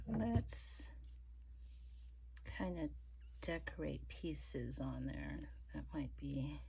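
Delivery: soft slow whisper; working whisper. Real, not acted. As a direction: whisper while placing pieces. Arranging lace pieces.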